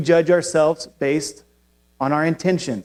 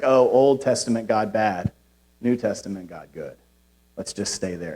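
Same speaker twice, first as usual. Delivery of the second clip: mocking simpleton voice; 7 semitones lower, 4 dB quieter than usual. Mocking heretic's simplistic view.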